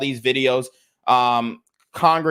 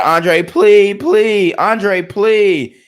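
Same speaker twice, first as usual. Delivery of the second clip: imitating a plea; 6 semitones higher, 8 dB louder, much slower than usual. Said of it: "She said".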